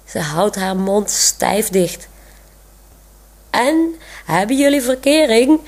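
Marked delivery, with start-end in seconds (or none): 3.5-5.6 eager call, pitched higher; mildly excited question, voice up high. A narrator's reading. Thomas eagerly asks the couple about dating, a mild excited call. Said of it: "roept Thomas".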